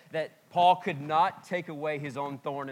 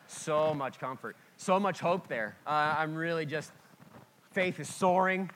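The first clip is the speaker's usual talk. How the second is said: sarcastic; 3 semitones higher, 3 dB louder than usual. Real, not acted. Sarcastic aside to congregation.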